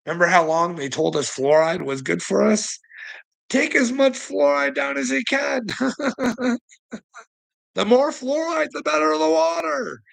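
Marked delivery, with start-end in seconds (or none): 3.5-5.6 high-pitched sarcastic pitch; high, jeering imitation; mocking official advice. Mocking old fluoride advice. 7.7-10.0 high, sing-out sarcastic slogan; high-pitched mock promoter. Mocking old fluoride advice.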